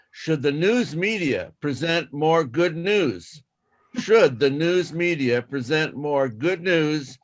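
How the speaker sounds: slow clear reading. Shown as a demonstration. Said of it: "do it twice".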